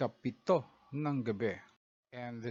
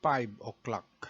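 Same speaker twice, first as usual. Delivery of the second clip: "five o'clock" slowly as "faiv oklak"; slow Tagalog-accented "five o'clock". Shown as a demonstration. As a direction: show the learner the Tagalog way. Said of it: "in Tagalog accent".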